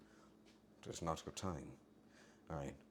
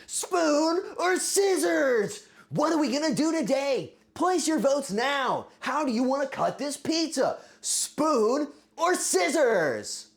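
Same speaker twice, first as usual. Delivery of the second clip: loud, high hyped host intro; game show host; 14 semitones higher, 8 dB louder, slower than usual. Acted. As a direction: sell the segment like a TV announcer. Game show voting segment.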